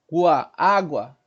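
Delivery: "água" with GUA as one short glide; diphthong demo. Shown as a demonstration. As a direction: keep U weak, gliding into A in "água". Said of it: "diferente do ditongo".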